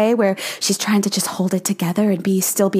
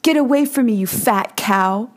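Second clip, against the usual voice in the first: rude punk; 2 semitones higher than usual. Retold or imitated. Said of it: "And he goes".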